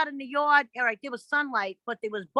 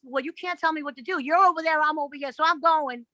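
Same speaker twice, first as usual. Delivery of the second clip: retelling a firm, mildly heated talk-back; telling him off; 4 semitones higher than usual. Retold or imitated. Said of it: "You're telling him off and everything".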